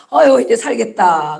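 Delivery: contented "phew" after trouble passes; lightly acted sigh of relief. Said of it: "문제 해결되면 그러죠". (살겠다는 듯 안도하는 말투)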